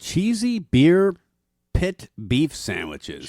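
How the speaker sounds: slow, rising showman echo; dramatic announcement. Acted. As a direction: savour each word like a menu reveal. Echoing the dish dramatically.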